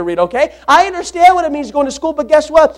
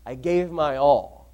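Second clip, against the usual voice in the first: quiet slow emphasis; 11 semitones lower, 11 dB quieter, slower than usual. Acted.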